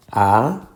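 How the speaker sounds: anunciar split as a, nun, ciar; syllable by syllable. Shown as a demonstration. Teacher dividing the word, anunciar syllable by syllable. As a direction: separate each syllable of anunciar with pauses. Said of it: "vamos a buscar cuál es la sílaba tónica".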